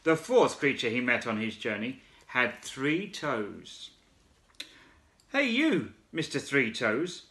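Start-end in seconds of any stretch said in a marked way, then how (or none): 5.3-7.3 high calling shout; frog shouting. Acted. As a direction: call out to the emu. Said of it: "shouted the big wide-mouthed frog".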